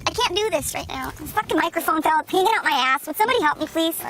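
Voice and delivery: an actress losing patience on set; fed-up outburst. Acted. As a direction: vent your frustration at the crew.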